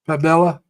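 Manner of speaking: Pamela said as pam-EL-la; Pamela in three full syllables; attempted pronunciation. Shown as a demonstration. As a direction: say Pamela with a clear "el" in the middle. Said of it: "I think the way Evie pronounces it".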